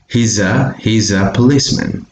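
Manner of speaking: "He's a" joined as "hee-za"; linked words. Shown as a demonstration. Teacher demonstrating connected speech, linked Z pronunciation. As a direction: run the Z of "He's" into "a". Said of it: "You connect that into".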